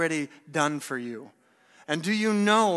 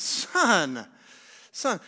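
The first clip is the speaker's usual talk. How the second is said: imploring appeal, falling away; pleading father; 2 semitones higher than usual. Acted. Father coming out to his angry son, pleading. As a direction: plead gently with your son. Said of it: "Remember, he's pleading with him".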